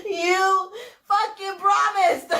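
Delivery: bitter laugh; laughing disbelief. Real, not acted. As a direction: drag it out while laughing. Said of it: "lose my shit".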